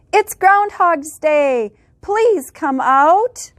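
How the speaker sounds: slow, drawn-out calling of the townsfolk; mild crowd shout. Acted. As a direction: call him out slowly like a whole crowd. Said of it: "The people added with a shout".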